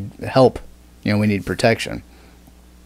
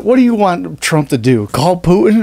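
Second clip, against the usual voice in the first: Hodge twins impression; 7 semitones higher, 4 dB louder than usual. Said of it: "It's like".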